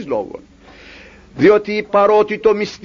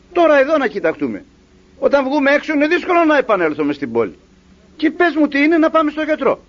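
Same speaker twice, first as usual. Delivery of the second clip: higher, quicker worried coaxing; worried master; 6 semitones higher than usual. Acted. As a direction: press him gently but anxiously, like a caring master. Master coaxes his sad slave.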